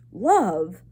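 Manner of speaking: outraged question. A narrator's reading. Head mouse outraged.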